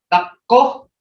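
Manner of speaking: taco with a th at the start, said slowly; Creek th sound. Shown as a demonstration. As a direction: slowly say taco with the tongue tip touching the front teeth. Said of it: "I want everybody to practice taco".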